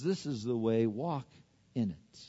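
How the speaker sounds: soft, low, gentle delivery; still small voice. Acted. God quietly guiding the listener, still small voice. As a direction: let it sink softly, with pauses. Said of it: "He speaks in that still small voice".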